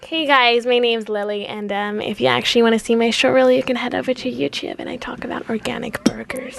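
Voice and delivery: a put-on American accent, upbeat intro; lightly done American accent. Shown as a demonstration. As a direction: sound like a chirpy American YouTuber. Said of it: "the American accent you're so good at".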